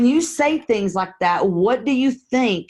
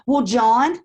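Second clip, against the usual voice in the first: friendly caller demo; 3 semitones higher than usual. Shown as a demonstration. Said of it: "here's my answer".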